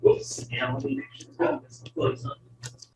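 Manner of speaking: off mic in an echoing dome; calling from across the room. Real, not acted. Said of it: "when we come back down, so you can actually hear me".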